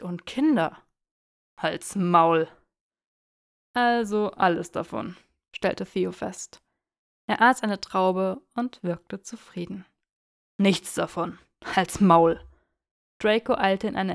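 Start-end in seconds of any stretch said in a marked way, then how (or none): 1.6-2.5 louder, curt shut up; irritated snap. Acted. Draco snapping at teasing Theo, curt and louder. 10.6-12.4 louder, curt shut up; irritated snap. Acted. Draco snapping at teasing Theo, curt and louder.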